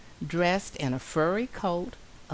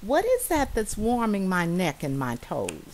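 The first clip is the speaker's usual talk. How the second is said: little mouse asking; 4 semitones higher, 4 dB louder than usual. Acted. Mouse asks the bee.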